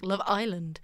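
Love Island with emphasis on the I; odd stress. Retold or imitated. Explaining the presenter's weird saying, stressing Island. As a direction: put the weight on Island in Love Island. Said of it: "found that really weird".

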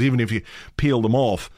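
ordinary delivery

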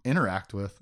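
"interact" stressed on the wrong syllable; misplaced stress on "interact"; odd emphasis. Real, not acted. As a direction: hit the first syllable of "interact". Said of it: "Say it weird again".

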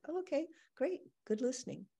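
light, lifted little "oh okay, great"; subtle encouragement. Retold or imitated. To her body, subtly approving and encouraging. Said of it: "in a subtle way".

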